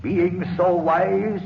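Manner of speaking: ominous curse. Acted. Spirit pronounces the curse.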